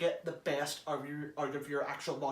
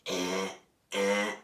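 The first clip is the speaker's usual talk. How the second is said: low grunting eh sounds; low guttural eh; 9 semitones lower than usual. Shown as a demonstration. Testing the Dalek rasp with low eh grunts. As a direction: growl out a low eh. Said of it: "testing it by doing this in your voice".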